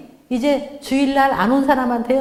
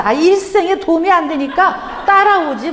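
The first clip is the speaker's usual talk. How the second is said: louder, laughing half-angry snap; laughing mock anger; 4 semitones higher, 5 dB louder than usual. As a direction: tell him off while laughing. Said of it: "화가 너무 나는 거예요". (웃으며 화난 척 말하기)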